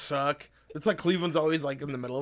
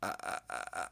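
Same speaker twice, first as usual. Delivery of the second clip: put-on held childish ah; 9 semitones lower, 10 dB quieter than usual. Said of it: "you go".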